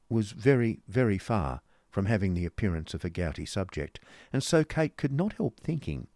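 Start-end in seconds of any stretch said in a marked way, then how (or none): none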